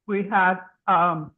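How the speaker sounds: talking while chewing food; words muffled by chewing. Real, not acted. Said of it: "I'm chewing and not thinking".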